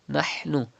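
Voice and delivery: nahnu with a breathy ha from mid throat. Shown as a demonstration. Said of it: "Pronounce ha from the middle part of your throat".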